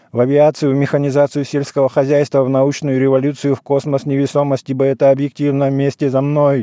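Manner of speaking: monotone liturgical rattle on one pitch; even, unbroken chanted patter; practised patter. A narrator's reading. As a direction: recite it like a priest running through a familiar litany. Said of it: "привычной скороговоркой зачастил".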